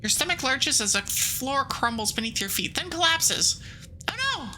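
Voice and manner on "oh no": mock alarm. Reacting to floor collapsing.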